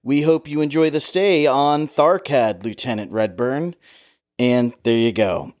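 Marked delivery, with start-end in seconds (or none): 0.0-3.7 higher-pitched announcer delivery, measured and grand; like a World War Two newsreel narrator; old newsreel. Retold or imitated. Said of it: "World War Two newsreel voiceover".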